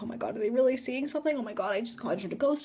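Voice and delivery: fast, hushed panic; freaking out. Retold or imitated. Teller fearing a real ghost was conjured, hushed freak-out. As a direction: rush it under your breath. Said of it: "I'm, like, freaking the frick out".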